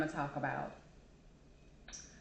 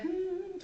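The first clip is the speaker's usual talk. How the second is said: high hum holding back an outburst; restrained "hmm"; 10 semitones higher, 4 dB quieter than usual. Shown as a demonstration. Someone trying to be nice before going off, restrained hum. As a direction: hum high as if about to flip off. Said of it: "somebody about to flip off and slap you".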